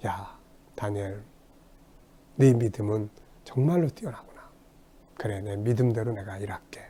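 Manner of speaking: a father quietly proud of his son; tender God voice. Pretend. God praising Daniel's faith. (아들을 자랑스러워하는 하나님의 부드럽고 조용한 목소리)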